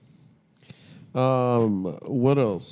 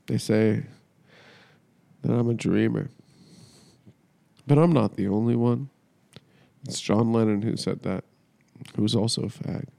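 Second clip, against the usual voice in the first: dramatic monologue. Pretend. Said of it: "I'm gonna do a dramatic monologue".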